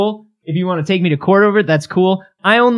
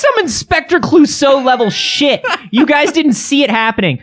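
laughing; 10 semitones higher than usual. Real, not acted. Laughing taunt.

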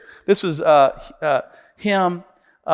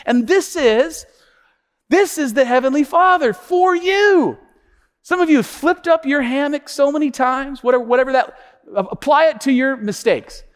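raised-pitch, earnest sermon delivery; impassioned preaching; 7 semitones higher than usual. Real, not acted. Preacher on the Heavenly Father's love, impassioned preaching. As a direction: drive the lesson home to the congregation.

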